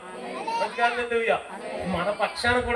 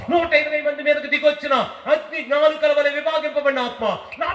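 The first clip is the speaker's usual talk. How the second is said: fervent prayer; 3 semitones higher than usual. Acted. Prophet Samuel prays for anointing.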